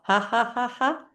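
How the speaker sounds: rising rhythmic ha-has; demonstrated laugh. Shown as a demonstration. Pour it up with laughing, rising deliberate laugh. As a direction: climb upward on each deliberate ha. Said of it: "with laughing".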